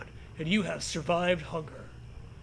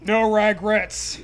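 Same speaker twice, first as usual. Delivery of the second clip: slow solemn resolve; 6 dB louder, slower than usual. Acted. Dramatic resolve.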